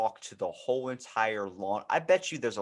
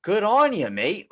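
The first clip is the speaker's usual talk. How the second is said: sarcastic cheer; 10 semitones higher, 6 dB louder than usual. Retold or imitated. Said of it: "And I'm like".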